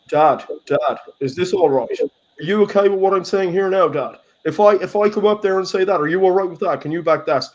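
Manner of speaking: a grown son seeking his father's approval, only lightly played; mock needy son. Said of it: "all that I could see was".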